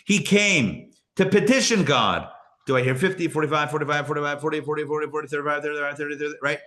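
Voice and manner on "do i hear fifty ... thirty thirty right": fast auction patter, rattling off bids; auctioneer voice. Shown as a demonstration. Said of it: "That's my, um, auctioneer voice".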